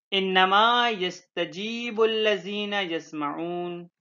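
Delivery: slow, drawn-out Arabic recitation; verse recitation. Real, not acted. Teacher reciting a Quran verse to students, slow recitation. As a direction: recite it slowly, stretching the long vowels.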